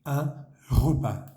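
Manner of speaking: un repas, slow, silent final s; slow French model. Shown as a demonstration. Teacher models un repas for students, very slow. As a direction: spell out un repas slowly for the class. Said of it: "Una comida en francés se dice".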